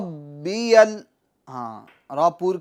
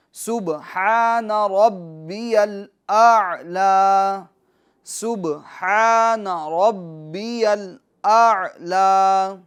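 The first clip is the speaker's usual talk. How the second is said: سبحان ربی الاعلی drawn out slowly and melodically; slow Quranic recitation. Shown as a demonstration. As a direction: recite it slowly for the learners to copy. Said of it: "اس کی مشق کری".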